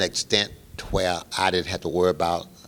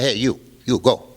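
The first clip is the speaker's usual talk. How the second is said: loud, higher, commanding bark; gruff boss call; 5 semitones higher, 7 dB louder than usual. Retold or imitated. Mob boss to young musician, loud gruff command. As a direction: summon the kid like you own the room.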